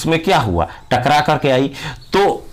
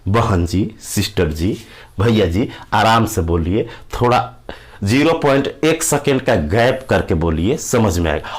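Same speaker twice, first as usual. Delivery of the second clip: lower, calm mock request; polite plea to slow down; 6 semitones lower than usual. Listener politely asking a fast talker to slow down, lower calm plea. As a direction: coax a fast talker to ease off, gently. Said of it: "तो आप कहिएगा".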